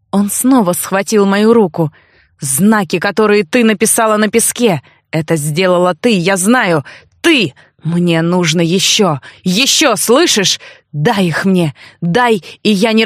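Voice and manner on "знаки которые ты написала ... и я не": put-on obsessed young man Alf. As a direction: press her, craving more signs. Alf demands the signs. (одержимый парень, чуть ниже голосом)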